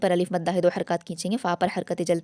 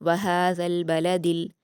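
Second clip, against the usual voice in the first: slow, careful Quranic reading; slow recited verse; tajweed recitation; 3 dB louder, much slower than usual. Shown as a demonstration. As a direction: draw the verse out slowly. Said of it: "लाम से मिला देंगे".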